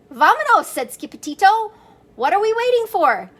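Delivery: high, loud, rushing call to go; eager kitten. Acted. Kitten urging his friends onward, high and eager. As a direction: urge them on, bursting to leave.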